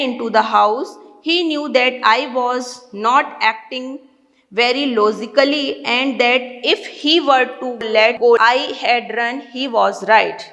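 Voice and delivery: slow, measured English reading; deliberate, drawn-out read-aloud pace; story read-aloud. A narrator's reading. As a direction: read the passage aloud slowly, word by word. Reads story passage aloud.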